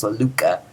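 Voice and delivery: "la luca" with the k softened nearly to "luga"; almost a G. Shown as a demonstration. Teacher explaining the Greek kappa, k almost like G. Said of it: "kind of like a G almost".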